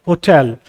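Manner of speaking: होटल, stressed on टल; stress on second syllable. Shown as a demonstration. Teacher showing an exception to learners, stress on टल in होटल. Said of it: "को use किया है second पे".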